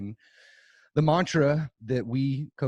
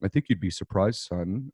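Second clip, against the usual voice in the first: a hint of Dad, pitch settling lower at the end; 3 semitones lower than usual. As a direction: lightly imitate your father addressing his son. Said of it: "Let me do my dad voice".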